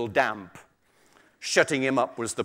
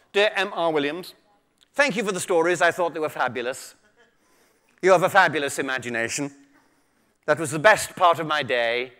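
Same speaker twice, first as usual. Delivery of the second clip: posh voice; 3 dB louder than usual. Retold or imitated. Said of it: "I'm gonna have to use my posh voice for this".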